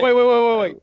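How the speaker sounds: stunned interruption. Real, not acted.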